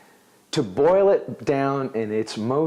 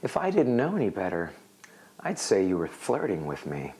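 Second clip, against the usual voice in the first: sarcastic; 4 semitones lower, 4 dB quieter than usual. Shown as a demonstration. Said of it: "you can say in a sarcastic manner".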